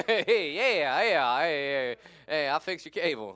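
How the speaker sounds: a cheesy redneck bit, shouted; Larry the Cable Guy. Retold or imitated. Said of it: "Larry the Cable Guy".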